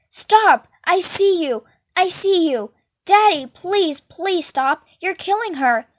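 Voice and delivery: high, loud desperate shouts to make him stop; pleading scream. Acted. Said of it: "I'm going".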